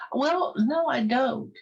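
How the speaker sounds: high, sheepish admission; sheepish goose. Acted. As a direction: concede a little embarrassed.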